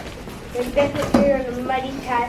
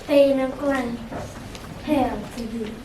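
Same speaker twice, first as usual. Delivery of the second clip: gleeful witch. Acted. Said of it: "moaned with glee".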